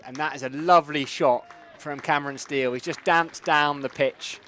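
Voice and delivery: rising excitement over a great shot; excited commentary. Real, not acted. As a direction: call the shot with building energy. Live shot called in commentary.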